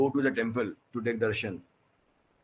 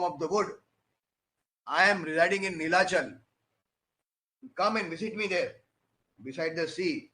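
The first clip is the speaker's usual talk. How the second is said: lightly voiced divine voice, higher pitch; Jagannath; 4 semitones higher than usual. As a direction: speak as a god calling a devotee, pitched up a little. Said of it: "What does Jagannath say?".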